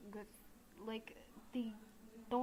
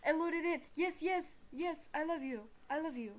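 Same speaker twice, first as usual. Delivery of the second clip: high, louder burst of delight; real excited cheering, pitched up; excited relief; 6 semitones higher, 7 dB louder, faster than usual. Real, not acted. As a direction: celebrate giddily as it finally works. Relief as the game finally loads.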